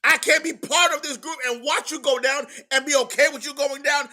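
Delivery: a pastor building to a climax; preaching shout. Acted. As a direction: drive it home at full voice. Preacher rising to full force.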